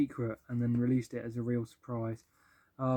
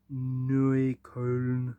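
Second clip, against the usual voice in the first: Neukölln in a hammed-up bad German accent, a bit louder; 5 dB louder than usual. Shown as a demonstration. Reviewing a singer's albums, reading a track title in mock German accent. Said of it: "That was the worst German accent ever".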